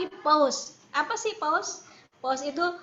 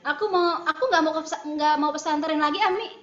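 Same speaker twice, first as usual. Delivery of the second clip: put-on protesting child; 3 semitones higher, 5 dB louder than usual. Child telling mother no more boarding school, protesting. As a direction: act out a kid digging in against a parent.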